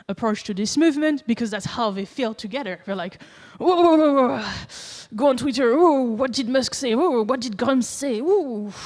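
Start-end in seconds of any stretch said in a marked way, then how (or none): 3.6-8.7 higher-pitched mocking whoops; mock mob excitement. Streamer mimicking witch hunters on Twitter, mock excitement. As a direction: hoot along like an excitable crowd.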